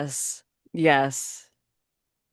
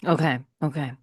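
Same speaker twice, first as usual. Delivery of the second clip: whisper; 6 semitones lower, 4 dB quieter, faster than usual. Real, not acted. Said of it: "steeling herself to sing".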